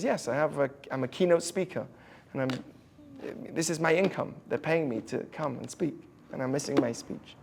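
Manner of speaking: soft, low, unbothered reply; calm, smiling. Retold or imitated. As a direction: recount trouble gently, as if untroubled. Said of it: "He said it with a smile on his face".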